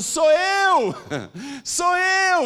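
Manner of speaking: very high, very slow, drawn-out shout. Retelling a woman running after a young man, imitating a woman shouting.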